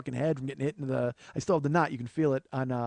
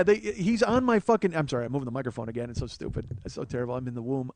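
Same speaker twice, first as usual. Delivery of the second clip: usual speaking voice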